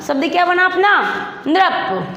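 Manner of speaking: ordinary delivery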